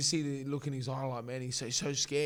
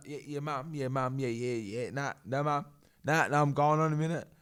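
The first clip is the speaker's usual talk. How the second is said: louder, rushed reassuring yeahs to mum; imitating Evan on phone; 7 dB louder than usual. Fighter reassuring his mum on the phone before the fight, louder hurried yeahs. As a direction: brush mum off quickly, louder. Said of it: "He, uh".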